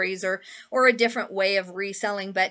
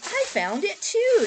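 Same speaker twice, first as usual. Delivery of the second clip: excited; 10 semitones higher, 4 dB louder, slower than usual. Retold or imitated. Insisting she found it too.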